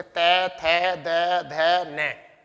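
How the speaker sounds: तै, थे, दे, धे, ने with the tongue pressed on the teeth; tongue against teeth. Shown as a demonstration. Teacher to students, tongue on teeth for तै थे दे धे ने. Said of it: "जब तक जीभ दांत से टकराएगी नहीं".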